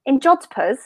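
jodhpurs in her Welsh accent; a mild Welsh accent. Shown as a demonstration. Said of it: "say that word again in your accent".

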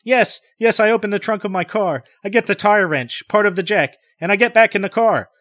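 high, loud, urgent rush; excited recall of grabbing the tire wrench; great excitement. Acted. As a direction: tumble out the words in panic. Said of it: "He speaks in great excitement".

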